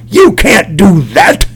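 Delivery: slow, drawn-out objection from the back row; lightly voiced grumpy old man at the meeting; mock cranky objector. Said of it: "sit in the back of the room and go".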